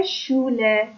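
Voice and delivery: «شوله» slowly, beginning with a clear "sh"; sch as "sh". Shown as a demonstration. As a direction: stretch «شوله» from its opening sh. («شوله» آهسته با صدای ش)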